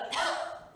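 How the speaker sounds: quick acted cough; short cough. Child hoping to be ill, a put-on cough. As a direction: cough hopefully, just once. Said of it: "If I got a cough".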